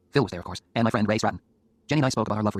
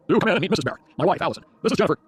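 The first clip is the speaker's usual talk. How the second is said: higher, louder greeting; welcoming host; 8 semitones higher, 5 dB louder than usual. Acted. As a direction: usher the guest in loudly. Host introduces wife and guest.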